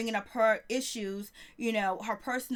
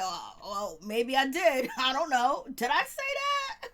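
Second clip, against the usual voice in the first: mock coy denial. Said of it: "She was like".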